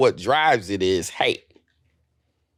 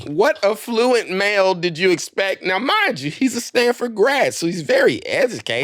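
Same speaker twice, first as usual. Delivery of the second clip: put-on British accent; 6 semitones higher than usual. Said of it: "can you do an English accent?".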